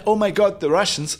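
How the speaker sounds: hammed-up fright, quickly dropping off; mock panic. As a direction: imitate someone panicking, lightly. Mimics panic about hackers.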